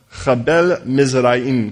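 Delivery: Chabel said with a throaty kh, stress on the bel, then Mizraim as miz-RAH-im; reading a hard place name carefully. Shown as a demonstration. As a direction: spell out Chabel Mizraim slowly. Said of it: "Could you say Chabel?".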